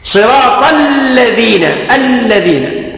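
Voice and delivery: long doubled L in الذين; shadda on the lam. Shown as a demonstration. Teacher counts the shaddas, doubled L in الذين. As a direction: hold the L of الذين slowly. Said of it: "التاسعة".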